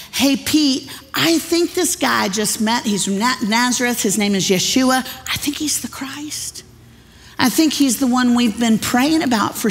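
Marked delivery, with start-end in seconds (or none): 0.1-5.0 lightly voiced excited brother. Andrew voiced telling Pete. 5.3-6.6 hushed, breathy confiding whisper; awed whisper. Retold or imitated. Andrew whispering to Pete that he found the Christ. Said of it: "his little brother Andrew had already said".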